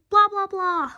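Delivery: a principal ranting; mock yelling. A narrator's reading. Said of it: "The principal was yelling".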